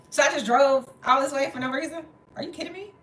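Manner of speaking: high-pitched retold disbelief; incredulous outrage. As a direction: climb in pitch, affronted by the news. Retells her outraged reaction.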